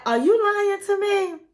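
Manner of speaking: high, pointed mock accusation; a hammed-up suspicious girlfriend. Matilda accusing Niles of lying, in a high mock-suspicious voice.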